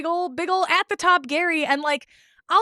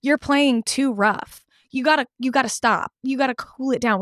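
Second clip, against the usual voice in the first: mock scolding; 4 semitones lower than usual. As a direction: scold her like a reasonable adult.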